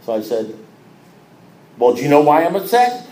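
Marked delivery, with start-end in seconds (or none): 1.8-3.1 louder, testy retold question; exasperated challenge. Member challenging his sponsor, exasperated. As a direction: fire the question back, exasperated.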